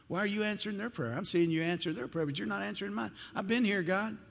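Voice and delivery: high, put-upon protest; aggrieved complaint. Acted. Believer complains to God about unanswered prayer, high and aggrieved.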